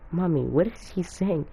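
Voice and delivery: lightly voiced curious kid; imitated child. Kid asking mommy about Jiraiya's cussing, childlike.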